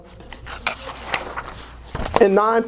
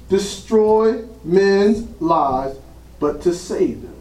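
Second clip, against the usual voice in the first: slow, measured Bible reading; scripture reading; slower than usual. Acted. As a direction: read the verse out with weighty pauses. Reads scripture aloud to congregation.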